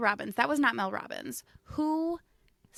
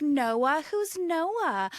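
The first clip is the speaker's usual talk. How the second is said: higher, louder mock questioning; teasing sisters; 6 semitones higher, 6 dB louder, much slower than usual. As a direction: mimic sisters mocking the accent. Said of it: "my sisters would tease the shit out of me".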